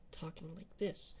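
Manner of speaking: a touch too much voice for ASMR. Shown as a demonstration. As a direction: talk at a fuller conversational volume. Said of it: "which is a bit too loud".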